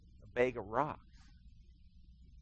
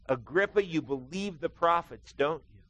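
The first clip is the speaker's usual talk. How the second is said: pressing appeal; 3 semitones higher, 3 dB louder than usual. Retold or imitated. Same appeal, repeated.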